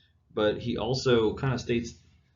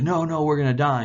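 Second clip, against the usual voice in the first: panicked king; 6 semitones higher, 7 dB louder than usual. Retold or imitated. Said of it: "and he's like".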